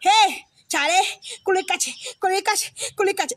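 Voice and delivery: breezy pal's street greeting in a changed voice; mock buddy greeting. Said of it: "tu fais".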